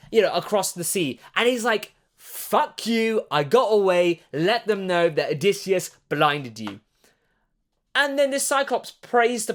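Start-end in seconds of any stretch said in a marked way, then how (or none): 2.2-6.8 mild mock yell, gloating. Odysseus taunting the Cyclops while escaping, mild mock yell. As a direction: taunt him as you sail off. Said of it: "he's just yelling".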